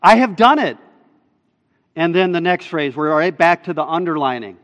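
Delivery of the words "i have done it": "done" pushed higher and louder; emphatic. Shown as a demonstration. Preacher reading the italicised core of the verse, emphatic. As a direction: hit "I have done it" hard, lifting "done". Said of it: "I have it in italics".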